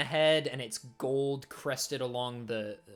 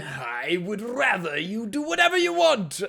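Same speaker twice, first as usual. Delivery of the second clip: armored warrior's voice; 9 semitones higher, 7 dB louder than usual. Acted. Warrior praising the party after battle, high and loud. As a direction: greet them grandly as a gleaming warrior.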